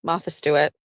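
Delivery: Martha with a dropped r, Mahtha; Massachusetts Mahtha Stewart; Fall River accent. Shown as a demonstration. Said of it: "Jess, say Martha".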